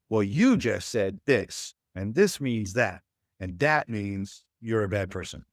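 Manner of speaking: slow, pointed accusing tone; mock accusation of a partner; accusing demo. Shown as a demonstration. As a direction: spell out the blame slowly, a bit pressing. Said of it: "too often what we do is".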